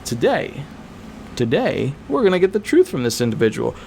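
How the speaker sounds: lightly voiced sarcastic judge. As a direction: roll the eyes as the judge. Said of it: "The judge is going".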